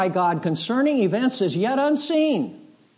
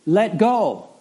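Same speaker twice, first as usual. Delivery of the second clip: voice from heaven; 3 semitones higher, 3 dB louder than usual. Retold or imitated. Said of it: "Then the voice said".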